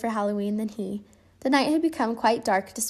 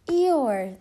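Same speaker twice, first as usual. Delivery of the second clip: higher, louder happy call; delighted shout; 4 semitones higher, 4 dB louder than usual. Acted. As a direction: shout his name with joy. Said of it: "they shouted with delight".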